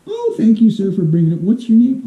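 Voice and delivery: a hint of a Victorian woman; Victorian lady. Victorian woman thanking a suitor for her handkerchief, lightly voiced. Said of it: "a woman would drop her handkerchief".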